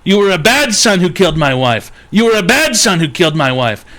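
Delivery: lightly voiced dad scolding his son; abusive dad.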